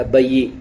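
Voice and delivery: بئی as two syllables, ba-yee; wrong full-vowel reading. Shown as a demonstration. Teacher warns against full sound, بئی split into ba-yee. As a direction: give the yaa in بئی a whole vowel of its own. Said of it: "یہ نہیں".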